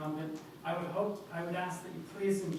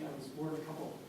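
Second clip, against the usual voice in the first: faint and off-mic; mic too far away; 4 dB quieter than usual. Real, not acted. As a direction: mouth far from the microphone. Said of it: "Please hold the mic closer to your mouth".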